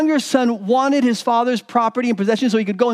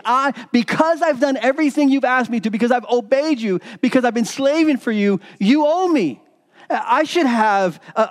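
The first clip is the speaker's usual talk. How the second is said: aggrieved complaint, voice rising higher toward "you owe me"; indignant older son; 4 semitones higher than usual. Acted. Older son protesting to his father, indignant and entitled. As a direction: demand what you think you are owed. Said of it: "He's like".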